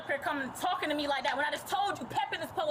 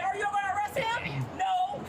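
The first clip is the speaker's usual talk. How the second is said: angry shout; 2 semitones higher than usual. Real, not acted. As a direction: yell it at the officer. Shouting at police officer.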